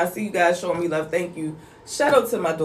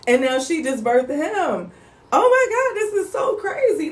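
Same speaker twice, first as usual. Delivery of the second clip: amazed; 5 semitones higher than usual. Retold or imitated. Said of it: "it's like".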